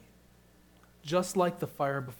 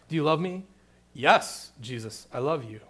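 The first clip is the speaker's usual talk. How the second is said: louder, eager reply; more gusto; 6 dB louder than usual. Retold or imitated. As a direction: say it with extra gusto. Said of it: "say it with a little more gusto".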